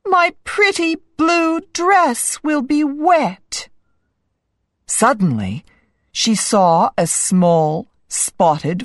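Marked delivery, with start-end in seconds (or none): 0.1-3.7 high-pitched, dainty fretting; worried princess, pitched high; princess thinking aloud. A narrator's reading. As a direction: fret over it in a high princess voice. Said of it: "she thought".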